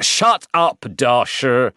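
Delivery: loud, high-pitched order to be silent; sharp rebuke. Acted. General silencing his interrupting officer, loud rebuke.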